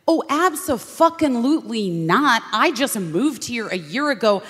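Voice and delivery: emphatic refusal. Retold or imitated. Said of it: "And I was like".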